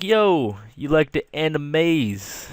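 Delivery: a light jokey bro voice, slow on the question; mock bro voice. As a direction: lightly play him as a cool bro. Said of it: "He didn't say it like that".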